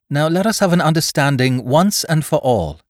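put-on level, commanding young woman; cool command. A narrator's reading. Polly addressing the mutineers with quiet command. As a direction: take charge coolly. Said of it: "spoke up coolly, quiet command in her voice".

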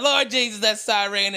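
put-on a Southern accent laid on, "siren" stretched; thick Southern drawl. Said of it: "my accent really pumps up".

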